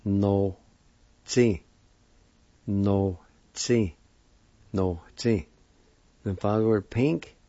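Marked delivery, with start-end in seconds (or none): 0.0-5.5 No, tsi said clearly as a model, a pause between the parts; pronunciation demo. Shown as a demonstration. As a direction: say No, tsi for the class to repeat. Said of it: "It's pronounced like this".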